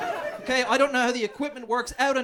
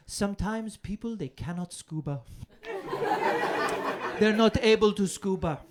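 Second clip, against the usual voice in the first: condescending. Retold or imitated. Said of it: "the most condescending thing".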